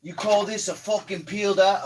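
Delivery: put-on loud, high, failed British-accent rant; abandoned angry chef impression; Gordon Ramsay. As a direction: yell it like a furious celebrity chef, badly imitated. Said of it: "I can't do an accent".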